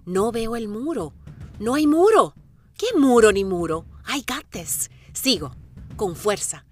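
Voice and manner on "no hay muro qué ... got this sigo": high, loud, triumphant; excited defiance. Real, not acted. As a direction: laugh off the wall with a shout. Desafía el muro con euforia. (grito desafiante y eufórico)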